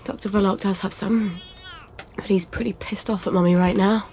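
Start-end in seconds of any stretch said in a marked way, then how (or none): 2.1-4.1 whispered aside. Acted. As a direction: drop to a breathy whisper. Mother confides to baby.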